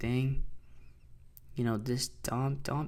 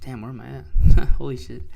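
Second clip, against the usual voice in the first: loud, caught off guard, laughing; startled outburst; 15 dB louder than usual. Real, not acted. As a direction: blurt it out, then laugh it off. Lost his place on the chart.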